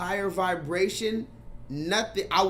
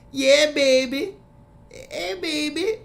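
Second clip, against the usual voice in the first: high, slow, sweet down south Louisiana drawl; drawn-out Louisiana Southern Belle baby talk; 7 semitones higher, 5 dB louder, slower than usual. Retold or imitated. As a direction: coo it like a cute Louisiana girl. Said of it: "cutest Southern Belle voice".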